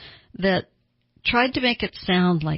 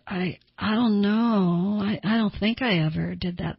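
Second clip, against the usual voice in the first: hedging. Retold or imitated. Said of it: "They also tend to hedge".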